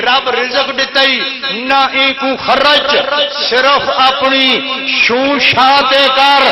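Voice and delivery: chanted majlis verse; poetry recital. Acted. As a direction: recite the rubai to the gathering.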